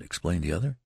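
ordinary delivery

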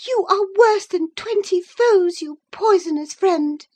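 high, loud indignant outburst; angry accusation. Acted. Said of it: "she repeated angrily".

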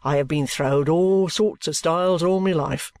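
lively, loyal soldier's speech; energetic offer. Acted. Phil volunteering to be a target, energetic and hearty. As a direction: offer yourself with gusto. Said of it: "energetically delivered".

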